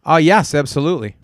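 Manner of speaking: loud, punchy yes; loud sharp voice. Real, not acted. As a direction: blurt it out too loud. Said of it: "Why are you yelling today?".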